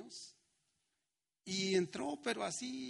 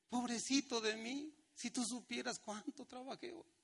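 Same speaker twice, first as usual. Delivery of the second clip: mock self-pity; 5 semitones higher than usual. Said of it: "Y son unas magdalenas".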